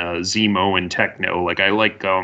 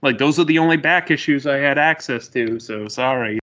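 apologetic dude; 5 semitones higher than usual. Retold or imitated. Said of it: "Techno's all like".

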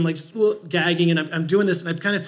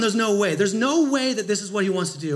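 louder, insistent mock protest; retold disbelief; 6 dB louder than usual. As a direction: replay the shock of being asked. Shocked refusal, told in story.

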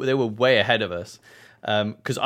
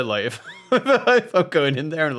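ordinary talk, nothing marked

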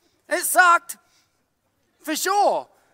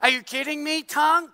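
higher, louder exasperated scolding, laughing through it; mock outrage; 7 semitones higher, 4 dB louder than usual. The preacher yells at his own tongue after biting it, laughing. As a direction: scold your own body part in disbelief. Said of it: "I'm like".

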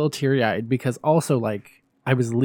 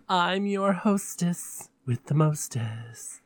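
much slower, softer hostess line; slow diva purr; 4 semitones higher, 3 dB quieter, much slower than usual. Acted. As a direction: savour each word like a vamp.

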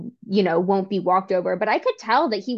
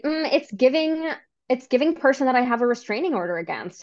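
deadpan, mocking comeback; sarcastic retort; 4 semitones higher than usual. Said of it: "I literally was like".

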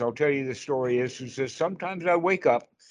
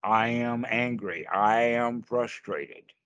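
slow labelling statements; 2 semitones lower, slower than usual. Shown as a demonstration. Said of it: "We say things like".

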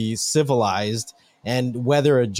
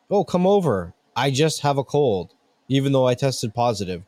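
mocking careless people; slower than usual. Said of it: "everyone's like".

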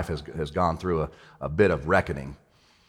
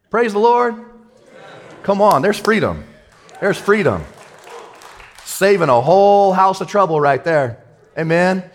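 much higher and louder, rejoicing; high exultant praise; 9 semitones higher, 4 dB louder than usual. Real, not acted. Pastor celebrating freedom after the prayer, exultant. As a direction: lift it up in joyful praise.

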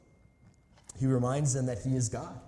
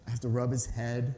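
ordinary talk, nothing marked

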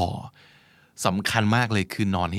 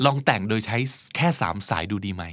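sudden idea. Retold or imitated. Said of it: "ก็เลยบอกว่า".

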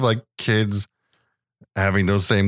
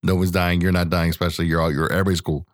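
lower, casual calming dad; understated parental comfort; mild reassurance; 4 semitones lower than usual. Retold or imitated. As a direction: lightly talk a kid down. Dad promises son nobody dies.

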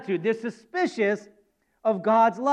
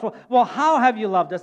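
incredulous retort, a little louder; mildly acted disbelieving comeback; 6 dB louder than usual. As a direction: throw the question back in disbelief. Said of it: "kind of an incredulous response".

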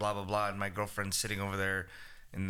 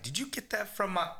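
higher-pitched question cut off mid-sentence; imitated line, chopped short; subtle, unfinished line; 9 semitones higher than usual. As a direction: break off abruptly before finishing the question. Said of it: "Very, very subtle, and you don't finish it".

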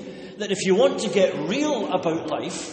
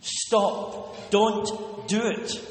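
pleading; much slower than usual. Acted. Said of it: "There is anguish in the pleading voice".

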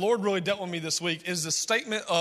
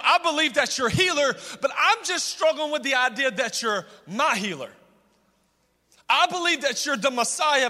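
higher-pitched, earnest acted plea; crying-out plea; 3 semitones higher than usual. A struggling believer confessing doubt to God, pleading. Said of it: "He cries out with tears and he says".

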